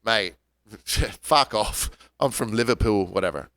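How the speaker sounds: lightly imitated Liverpool accent; a slow, offhand take on a Liverpudlian; Brit from Liverpool. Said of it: "the Brit goes".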